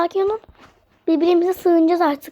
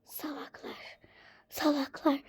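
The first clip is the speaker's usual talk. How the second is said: whisper; 14 dB quieter than usual. Pretend. Insulting under her breath.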